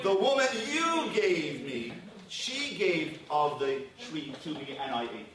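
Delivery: slow, pointed mock Adam pinning it on the woman; Adam blaming. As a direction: drag out the excuse with a pointed you. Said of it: "man's first response to God's challenge".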